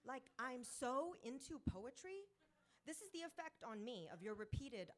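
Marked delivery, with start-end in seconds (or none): 0.0-2.3 put-on valley girl. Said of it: "a valley girl".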